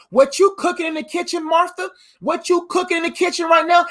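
playfully calling her out; teasing call to Martha. Acted. Jesus calling out to Martha in the kitchen, teasing.

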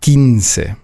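quince starting with a plain k, no w. Shown as a demonstration. Teacher demonstrating QU, quince with a K sound. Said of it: "wird ausgesprochen wie ein K".

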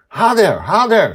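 put-on high, loud girl urging; urging shout. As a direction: egg him on to knock harder. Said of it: "she says".

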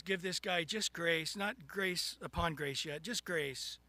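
low, soft, understated voice of God; the Lord. Acted. God orders grace for the man with the bucket, low and soft. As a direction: quietly give a measured order, low in the voice. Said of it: "and the Lord says".

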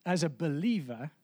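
"believer" set apart by pauses and emphasized; pause, then lean deliberately on "believer"; stress on believer. Real, not acted. Preacher declaring his expectation, with emphasis on "believer". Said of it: "emphasis on the word believer".

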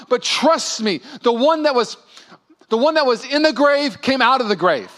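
rally a losing team; halftime pep talk. Retold or imitated. Holy Spirit rallying struggling Christians like a halftime coach. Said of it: "a halftime coach would give".

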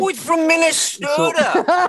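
mock Minnesota accent. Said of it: "he sounds like a Norwegian bachelor farmer".

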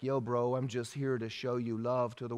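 lazy cool hippie Jesus, a bit hammed-up; mock hippie voice. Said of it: "look, I'm not a hippie ... that's how they talk".

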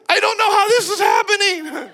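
high, laughing disbelief; can't believe it, laughing; laughing amazement. Retold or imitated. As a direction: laugh through the wonder of a miracle. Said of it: "I say it all the time".

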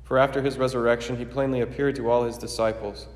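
formal, ringing liturgical proclamation; solemn preface prayer. Acted.

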